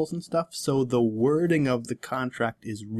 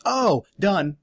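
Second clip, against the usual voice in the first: quick, higher gleeful grab; 8 semitones higher, 6 dB louder than usual. Retold or imitated. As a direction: pounce on the loophole. Player snapping up loophole.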